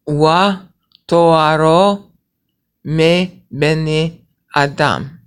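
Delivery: emphatic slow Hebrew reading; loud slow recitation. Shown as a demonstration. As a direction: proclaim the line slowly. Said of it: "Okay, now watch".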